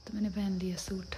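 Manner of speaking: hushed whisper, barely voiced; soft whispered aside. Real, not acted. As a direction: whisper it so nobody wakes. Quiet aside, baby nearby.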